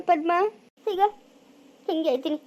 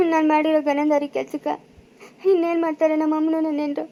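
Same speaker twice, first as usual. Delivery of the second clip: speaking through tears about his mistake; crying regret. Acted. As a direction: let the words catch on a sob. Son regrets his grave deed.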